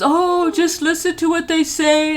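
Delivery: a hint of a pleading mother; older woman voice. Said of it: "then she goes".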